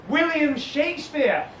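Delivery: slow clear "William Shakespeare"; slow deliberate. Shown as a demonstration. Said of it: "teacher models the name".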